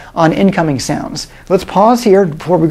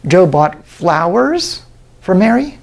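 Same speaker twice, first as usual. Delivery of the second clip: slow, with "flowers" raised and stressed; slower than usual. Shown as a demonstration. Lecturer varies emphasis, now on "flowers". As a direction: hit "flowers", as if the gift matters. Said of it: "sometimes I'm emphasizing different words".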